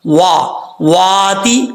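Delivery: "واتی" with rounded w and long aa; correct Quranic pronunciation. Shown as a demonstration. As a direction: draw out the aa in "واتی", slowly. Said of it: "اب اس کو وا تے نہیں پڑھنا". ("واتی" میں گول واو اور لمبا الف)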